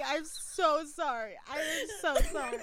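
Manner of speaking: real giggles breaking into the words; laughing apology. Real, not acted. Co-host can't go on and apologises, laughing. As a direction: apologise while cracking up.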